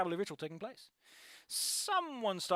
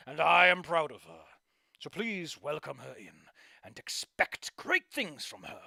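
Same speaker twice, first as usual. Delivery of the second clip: put-on a proud old performer passing on his title; lightly voiced grand old showman; old showman speech; 2 semitones lower than usual. Old performer addresses the crowd.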